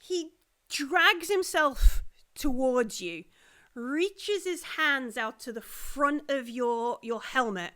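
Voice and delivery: slow, suspenseful narration; game master building a slow attack; game master's scene setting. Acted. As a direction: draw out the menace step by step.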